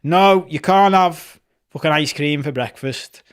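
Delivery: lightly voiced strict dad laying down the rules; stern parent. Dad telling the kids no ice cream, lightly stern. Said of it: "So it's like".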